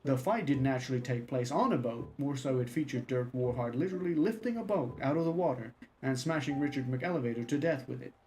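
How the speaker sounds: a lightly dramatic pulp-thriller reading; story narration. Acted. Streamer reads the Dirk Warhard novel aloud as mock thriller narration. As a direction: read it like an action paperback, mock serious.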